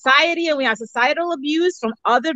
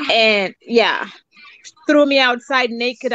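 crying. Real, not acted. Recounting mother's abuse, tearful.

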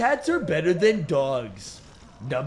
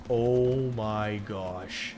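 hushed awe; 9 semitones lower, 9 dB quieter, slower than usual. Real, not acted. Awed at scary bear.

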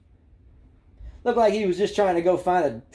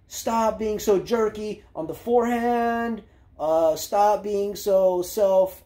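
slow, deliberate coaching orders, a bit higher; stern coach; 4 semitones higher, slower than usual. Pretend. Pretending to coach Tiafoe on the sideline, slow deliberate orders. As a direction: lay out each fix slowly like a no-nonsense coach. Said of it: "I would have been like".

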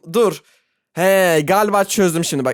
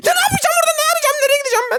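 panicked squeal; much faster than usual. Real, not acted. Panicking at the game. (yüksek, panik içinde ciyaklama)

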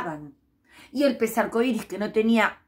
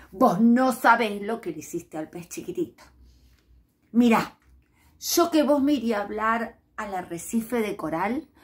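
mild anger. Acted. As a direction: scold him with restrained reproach. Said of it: "que estaba bien enojada".

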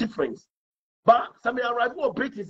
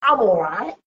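British I'm all right; slower than usual. Retold or imitated. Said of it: "But I won't say that".

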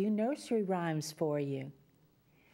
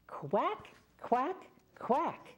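bright, higher quack quack quack, leading a chant; duck quacking; 4 semitones higher, much slower than usual. Shown as a demonstration. Storyteller leads children in a chant, with higher playful quacks. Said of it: "Let's do it one more time".

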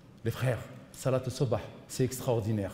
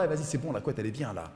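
softer coaxing inner voice; tempting inner voice; 2 semitones lower, 6 dB quieter, faster than usual. Retold or imitated. Lazy inner voice to the sleeper, softer and coaxing. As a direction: coax him back under the duvet. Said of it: "la petite voix qui t'entend".

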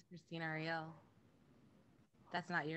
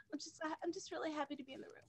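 whisper; 9 semitones higher, 4 dB quieter, faster than usual. Real, not acted. Overwhelmed player gushes softly.

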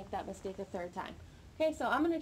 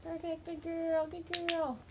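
dog praise; 6 semitones higher, slower than usual. Real, not acted. Praising puppy during trick training.

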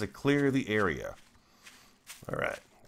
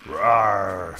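loud playful zombie roar; zombie growl; 8 dB louder than usual. Acted. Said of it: "says the zombie".

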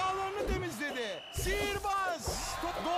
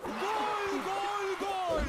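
screaming football commentator; 4 semitones higher, much slower than usual. Acted. Goal called in game commentary.

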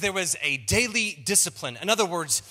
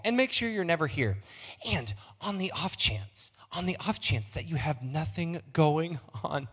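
stewardess voice. Pretend. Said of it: "by talking in my stewardess voice".

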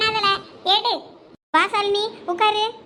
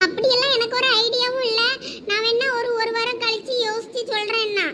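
higher-pitched imitation of a reluctant suitor; mocking his overacting; 4 semitones higher than usual. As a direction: mimic him playing hard to get, pitched up. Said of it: "அவன் ஓவரா behave பண்ணான் தெரியுமா". (அலட்டல் செய்தவனைப் போல நடித்துக் காட்டுதல்)

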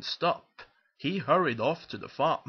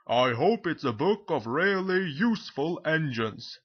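emphatic authority figure, a touch louder; Fat Controller; 3 semitones higher, 4 dB louder than usual. Acted. Boss speaking about the finished book, emphatic. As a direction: pronounce it with hearty importance.

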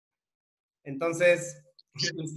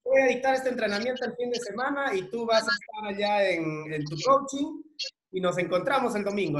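higher, bouncy, a chirpy send-off; imitating his own forced cheerfulness; cheery pep talk; 4 semitones higher than usual. Husband mimicking his breezy goodbye to his wife, higher and upbeat. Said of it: "yo la mandaba así".

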